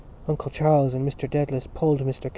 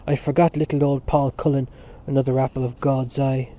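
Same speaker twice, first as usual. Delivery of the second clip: scornful; 3 dB louder than usual. Acted. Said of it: "guffaw of coarse scorn".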